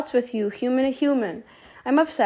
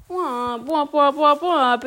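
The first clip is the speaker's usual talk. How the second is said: vocal horn fanfare; 3 semitones higher, slower than usual. Pretend. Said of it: "take out your blowhorns and ring them".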